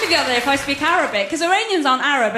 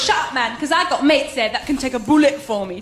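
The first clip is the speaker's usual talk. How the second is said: mock-tough street girl bragging; imitating a sister's hard-girl act; streetwise little sister; 3 dB louder than usual. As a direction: talk big like a London teen. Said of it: "She goes".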